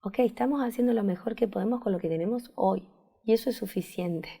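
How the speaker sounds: soft, quiet, gentle affirmation; soothing reassurance. Shown as a demonstration. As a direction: say it softly to calm a worried listener. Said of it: "La exigencia es como".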